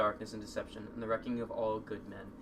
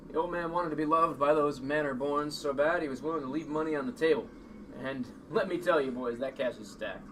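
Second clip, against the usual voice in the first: gangster boss voice; 3 semitones higher, 6 dB louder than usual. Acted. Gangster character addresses boys.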